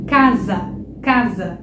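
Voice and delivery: "casa" with a voiced z, ca-za; z sound in casa. Shown as a demonstration. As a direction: say "casa" buzzing the s as z. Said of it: "Não é caça, é casa". ("casa" com som de z)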